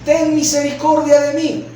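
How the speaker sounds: mild re-enacted shout for mercy; crying out. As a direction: call out as the blind beggar. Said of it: "comenzó a dar voces diciendo".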